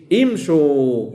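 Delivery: "امشوا" begun with an i sound, "imshu", long final u; imperative with i. Shown as a demonstration. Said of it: "بالتالي تقول في الأمر". («امشوا» بكسر الهمزة: إِمشو)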